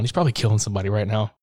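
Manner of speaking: quick, offhand imitation; casual, unbothered throwaway; nonchalant. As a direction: rattle it off as if it's no matter. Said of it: "Just so nonchalant".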